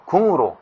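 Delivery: 궁으로 said with a nasal ng closing 궁; nasalized pronunciation. Shown as a demonstration. Teacher shows students nasal assimilation, sounding it out. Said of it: "비음으로 발음되죠".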